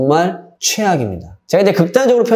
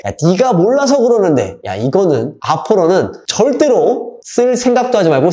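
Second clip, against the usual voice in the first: 1 dismissive parent; 3 semitones higher than usual. Shown as a demonstration. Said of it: "첫 번째로 제가 얘기하는 게".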